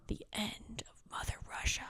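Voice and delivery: breathy spooky whisper; mock whisper. Mocking the movie's Russians in a spooky whisper. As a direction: hush it like a dark omen.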